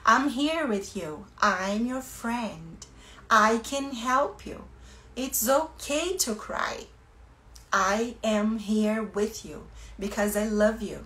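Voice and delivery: put-on soothing a crying child. Shown as a demonstration. Teacher comforting a sobbing child, slow tender voice. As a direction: hold the child close and calm them gently. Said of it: "deixa ela chorando e fala".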